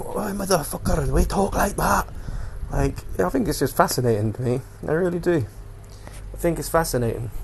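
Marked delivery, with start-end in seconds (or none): 0.0-2.1 exaggerated regional British accent, pitched up; another regional accent. Shown as a demonstration. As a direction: drag it out in a thick local accent. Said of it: "a billion different accents".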